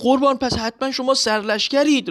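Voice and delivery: high, pleading question of a frightened driver; mock fearful trembling. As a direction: squeak it out like a scared cabman. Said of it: "با اون حالت ترس و لرز گفت".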